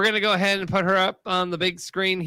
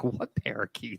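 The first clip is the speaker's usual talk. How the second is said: puzzled look voiced; 7 semitones lower, 9 dB quieter than usual. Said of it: "She's looking at you like".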